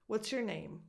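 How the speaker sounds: "your" as a weak "yer"; reduced your. Shown as a demonstration. Coach drilling the easy example, reduced your. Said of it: "becomes a schwa".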